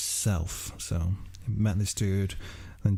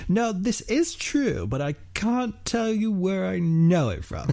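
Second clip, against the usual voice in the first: mock-earnest plea; 8 semitones higher than usual. Student defending unsourced dissertation claims, in a high mock-earnest plea. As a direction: plead your case in a comic high voice. Acting out own dissertation excuse.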